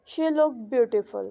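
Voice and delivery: "she look beautiful" slow, with a fall on "beautiful"; rising-falling tone. Shown as a demonstration. Teacher giving students an example, slow rising-falling tone. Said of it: "rising falling tone का".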